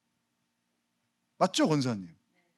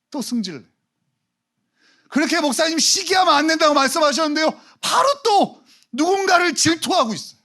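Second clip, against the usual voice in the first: much higher, loud, hammed-up whine; mock jealous congregant; 14 semitones higher, 6 dB louder than usual. Pastor hamming up a jealous churchgoer, high and loud. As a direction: squeak it out like a petty gossip.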